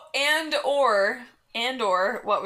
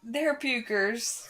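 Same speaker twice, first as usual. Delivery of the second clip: slow teasing echo; 3 dB quieter, much slower than usual. Shown as a demonstration. Repeats partner's words slowly.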